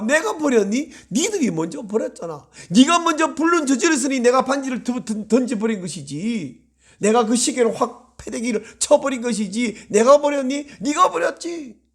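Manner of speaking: acted indignation, pitch leaping on the questions; God's scolding retort. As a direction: argue back as the wronged party. Acts out God scolding the people.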